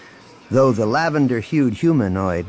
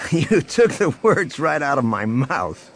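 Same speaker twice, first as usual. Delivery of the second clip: amused, higher-pitched voice; laughing reply; 6 semitones higher than usual. A narrator's reading. Man agreeing with old rival, laughing. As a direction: lead with a chuckle, speak amused. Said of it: "Han laughed".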